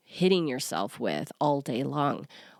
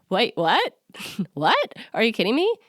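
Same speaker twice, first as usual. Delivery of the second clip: higher and louder, stunned and incredulous; stunned disbelief; 5 semitones higher, 5 dB louder than usual. Retold or imitated. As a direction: gasp it out as if it never crossed your mind. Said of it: "her stunned reaction".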